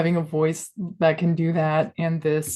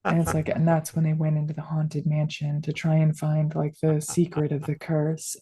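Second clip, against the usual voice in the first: murder mystery podcast. Shown as a demonstration. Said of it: "a murder mystery podcast voice".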